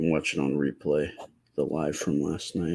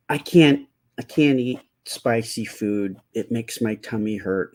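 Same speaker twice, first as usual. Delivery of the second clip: put-on whiny little kid; 4 semitones higher, 4 dB louder than usual. Shown as a demonstration. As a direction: whimper it like a small child. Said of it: "I'm gonna have to say it like that".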